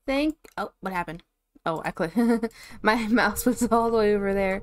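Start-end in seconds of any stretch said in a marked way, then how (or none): 2.2-4.6 laughing. Real, not acted. Laughs at own misclick.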